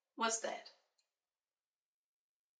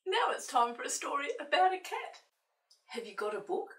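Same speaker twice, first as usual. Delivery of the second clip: high, loud puppet voice; squeaky little puppet friend, eager; Peter the puppet; 6 semitones higher, 5 dB louder than usual. Pretend. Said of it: "Peter said".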